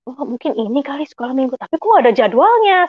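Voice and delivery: musing, then rising into puzzlement; retold bewildered reasoning; confused. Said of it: "Saya bingung".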